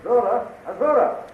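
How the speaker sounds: high call from off in the distance; calling from afar. Acted. Flash searches the palace for the queen, calling out from afar. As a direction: call out for her from another room.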